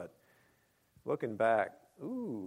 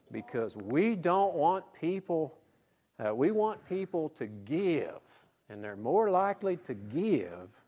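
put-on Alabama accent; 5 semitones higher, slower than usual. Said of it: "falling into his Alabama accent".

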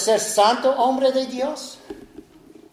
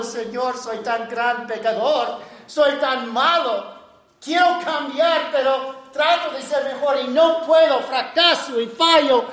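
tearful plea; 4 semitones higher than usual. Retold or imitated. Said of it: "delante del Señor llorando".

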